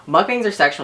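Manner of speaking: high, loud mock declaration; excited quote. Quoting Dan's blunt claim.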